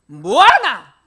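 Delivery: loud angry yell at the driver; angry shout. Retold or imitated. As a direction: bark it out loud like an angry Gyeongsang student. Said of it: "화내듯이요".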